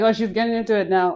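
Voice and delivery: fast, laughing mock student; imitating a student amused by the teacher; laughing quote. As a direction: rattle it off through laughter. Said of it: "You're like".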